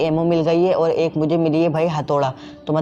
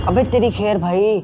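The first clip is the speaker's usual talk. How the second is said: higher and louder, heart-attack shock; jolted exclamation; 3 semitones higher, 3 dB louder than usual. Real, not acted. Gamer nearly gets a heart attack from the girl, jolted exclamation. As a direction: blurt it out as the scare hits. Scare, "दिल का झटका.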